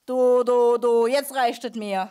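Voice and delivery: loud, fed-up outburst; angry shout. Acted. Hugo shouting at the mocking dog. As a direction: yell it, patience gone. Quarrel, Hugo loses patience.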